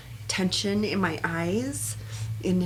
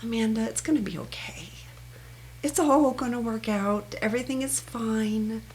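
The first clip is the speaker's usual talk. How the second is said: reassuring self-talk; 3 semitones higher than usual. Shown as a demonstration. Amanda being her own cheerleader, gently reassuring herself. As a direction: soothe yourself that it will be fine. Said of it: "I'd probably say something like".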